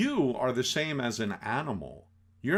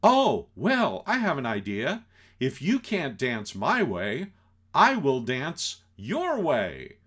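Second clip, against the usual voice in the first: put-on tipsy girlfriend; 3 semitones higher, 5 dB louder than usual. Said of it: "she says".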